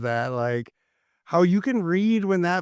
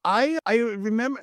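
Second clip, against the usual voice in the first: ordinary delivery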